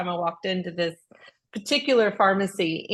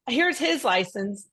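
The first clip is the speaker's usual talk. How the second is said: slow, pointed; 2 semitones higher, slower than usual. Retold or imitated. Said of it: "I said".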